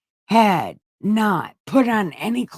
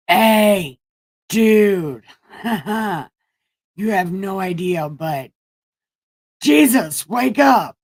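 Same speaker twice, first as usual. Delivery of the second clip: panicked yelling; 4 dB louder, slower than usual. Acted. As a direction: shout to wake him up in terror. Disciples panic, wake Jesus.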